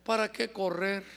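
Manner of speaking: lightly voiced weary retiree; mock aging complacency. Person turned sixty gives up striving, mildly weary. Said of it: "dicen que uno sabe cómo se avejenta".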